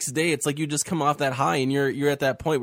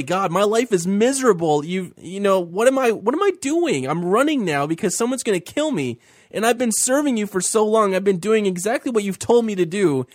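higher, louder lament that cracks upward; hopeless Elijah; 5 semitones higher, 3 dB louder than usual. Retold or imitated. Host voicing Elijah begging God to take him, higher and louder. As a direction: throw up your hands in despair. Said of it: "he was feeling so hopeless".

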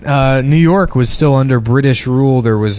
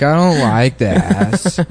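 mock Adam; much slower than usual. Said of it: "Adam's like".

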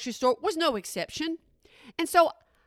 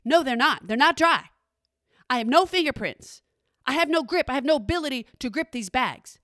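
louder mock-unhinged cashier; cashier's crazy rant; 3 dB louder than usual. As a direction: snap back as the unmasked crazy cashier. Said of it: "And she said".

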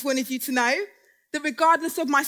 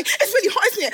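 flirty; 5 semitones higher than usual. Acted.

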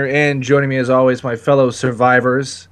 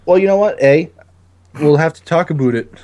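put-on Canadian accent; 6 semitones higher, 3 dB louder than usual. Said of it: "can't even do your own accent".

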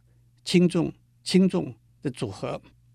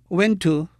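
went to with went stressed, louder; heavy-light stress; 3 semitones higher, 5 dB louder than usual. Shown as a demonstration. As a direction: hit went, let to fall away. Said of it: "是重轻的组合".

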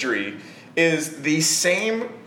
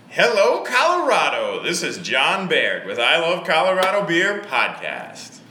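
podcast voice. Shown as a demonstration. Host demonstrating his podcast voice for his friend. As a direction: announce it proudly like a radio host. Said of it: "this is my podcast voice".

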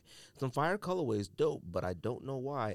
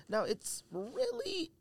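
mock complaint; 10 semitones higher, slower than usual. Real, not acted.

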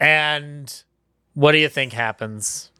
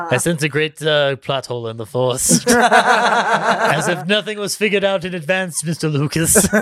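wise Jedi mentor. Retold or imitated. Jedi actor mocking the script.

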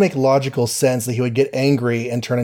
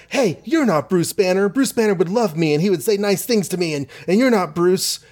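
higher-pitched, mock-indignant Betty; acted protest; 5 semitones higher than usual. Betty confronts the fake Bruce, acted higher-pitched protest. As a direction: protest in a raised, put-on voice.

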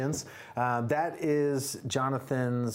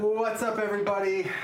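excited; 9 semitones higher, 4 dB louder than usual. Acted. Podcast intro greeting.

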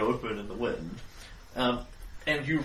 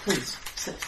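mystic, slightly raised seer voice; fortune teller; 4 semitones higher than usual. Acted. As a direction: intone it like a carnival seer.

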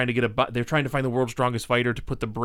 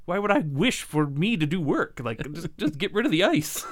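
mock-exasperated, pitched up on the protests; exasperated retort; 4 semitones higher than usual. Wisher arguing with the dragon over doing work, exasperated. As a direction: protest like a put-upon customer.

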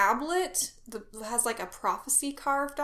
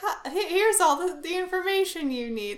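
higher, lightly robotic exposition; a hint of a droning ship computer; 6 semitones higher than usual. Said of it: "in my computer voice".

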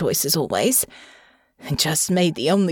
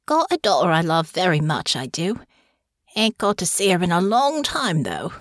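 wistful. Acted. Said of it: "his tone wistful".

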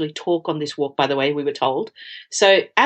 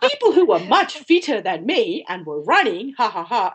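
laughing; 2 semitones higher than usual. Real, not acted. Laughing about the runners.

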